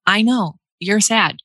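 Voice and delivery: slow, tender reassurance; gentle comfort. Retold or imitated. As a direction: soothe a sad baby slowly. Comforting a crying baby.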